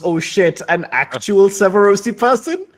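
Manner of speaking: mildly panicked, pitch lifted; Augustus alarmed. Acted. Augustus fears his act will fail before an authentic Severosi, mild alarm. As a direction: play mild alarm at being found out. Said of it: "And then Augustus, you see, immediately goes".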